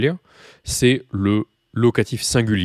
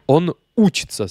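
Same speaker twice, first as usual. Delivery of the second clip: "учится" with the first syllable У stressed; 6 semitones higher, 5 dB louder than usual. Shown as a demonstration. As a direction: lean on the opening У in "учится". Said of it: "il passe sur le, le ou ici".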